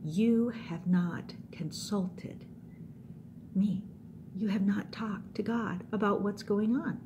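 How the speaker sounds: slow, measured pronouncement; lightly acted heavenly messenger; solemn angel. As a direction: deliver a grave rebuke word by word. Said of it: "And the angel says".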